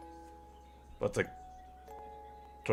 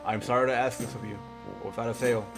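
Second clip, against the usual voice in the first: put-on wise old man voice. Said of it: "a more wise old man voice".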